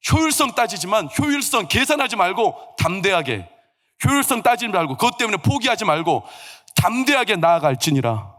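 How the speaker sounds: firm, emphatic pulpit exhortation; forceful preaching. Real, not acted. Preacher urging congregation to approach boldly, forceful. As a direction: drive each phrase home, slowing into the last.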